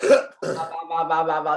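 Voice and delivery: monotone mock line reading; imitating a static, lifeless read; stiff line reading. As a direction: drone nonsense lines as if standing stock-still. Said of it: "we can hear you standing".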